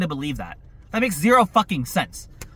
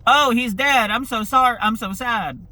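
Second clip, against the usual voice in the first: a higher, hammed-up fake grief; mock sadness; 5 semitones higher than usual. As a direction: mimic their hollow mourning lightly. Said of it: "they were like".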